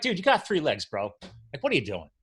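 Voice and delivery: mock exasperated. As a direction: tease the three-legged dog like a buddy. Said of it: "I'm like".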